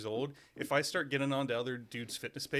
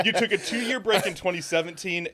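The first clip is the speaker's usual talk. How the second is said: words through a real laugh; laughing while talking; 5 semitones higher, 6 dB louder than usual. Real, not acted. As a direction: still chuckling as he speaks. Laughs at his own stumble.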